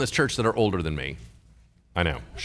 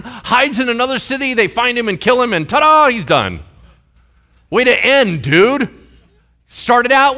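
loud, pitched-up storytelling from the pulpit; fiery preaching; 7 semitones higher, 6 dB louder than usual. Acted. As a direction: drive the story home to the congregation.

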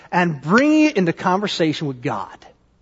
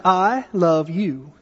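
slow tender; 3 semitones lower, much slower than usual. Retold or imitated. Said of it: "I looked at him and I said".

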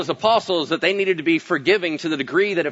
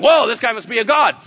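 mock amazement; 6 semitones higher, 6 dB louder than usual. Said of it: "they're like".

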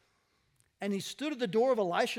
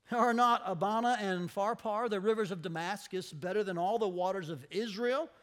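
indignant; 4 dB louder than usual. Acted. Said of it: "went away in a rage".

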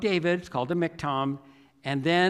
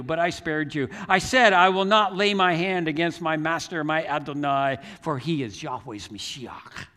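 raised declaration settling to usual voice; shouted plea easing off; 2 semitones higher, 5 dB louder than usual. Retold or imitated. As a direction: start out calling, let it fall to a solemn close. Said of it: "he started shouting to".

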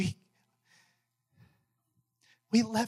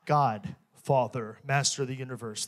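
reverent prayer; 6 semitones lower than usual. Shown as a demonstration. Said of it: "this is how I prayed".

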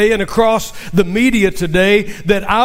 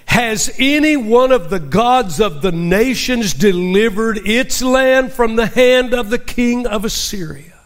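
cynical; 3 semitones higher than usual. Shown as a demonstration. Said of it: "I want you to hear the cynicism".

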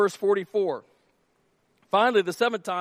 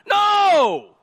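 a very high, loud shouted no; preacher's sudden shouted denial; emphatic no; 13 semitones higher, 11 dB louder than usual. Real, not acted. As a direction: shout it down hard. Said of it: "preacher rejecting the idea".

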